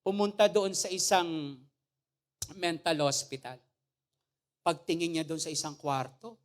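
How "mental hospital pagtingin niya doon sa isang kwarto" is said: ordinary talk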